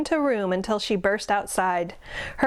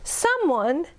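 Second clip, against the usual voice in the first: put-on much higher whiny baby bear wail; wailing cub; 8 semitones higher than usual. A narrator's reading. Baby bear missing her boots, high mock wail. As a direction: wail it like a cub whose boots are gone. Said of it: "she wailed".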